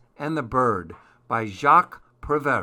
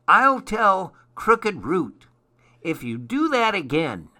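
cross elf threat; 7 semitones higher, 4 dB louder than usual. Acted. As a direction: threaten to tell, high and loud. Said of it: "said the elf crossly".

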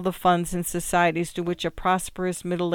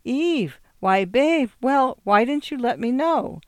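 high, swooping delighted surprise; surprised greeting; 6 semitones higher, 3 dB louder than usual. A narrator's reading. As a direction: greet unexpected visitors in raised-pitch astonishment. Man surprised to find women waiting.

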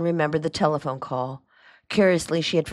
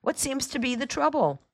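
cheery question, pitched much higher; cheerful; 10 semitones higher than usual. A narrator's reading. Uncle walks in on the fuss, cheerfully asking. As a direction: ask it lightly and high. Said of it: "he said cheerfully".

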